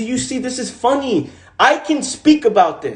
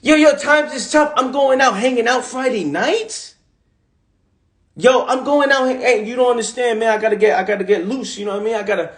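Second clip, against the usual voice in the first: imitating his younger self; 2 semitones higher than usual. Imitating himself telling his Bronx friends he's going out. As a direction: toss it off like a kid who wants to party. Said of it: "telling my boys at the time growing up in the Bronx".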